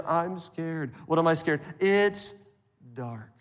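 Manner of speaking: a hint of a scared little boy; small, soft frightened kid; child voice. Preacher voicing little Johnny telling mom he's scared, lightly voiced, soft. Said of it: "little Johnny says".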